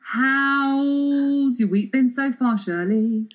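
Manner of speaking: high, slow presenter lilt; drawn out like a chat-show host; sing-song host voice. Acted. Host asks co-host, put-on.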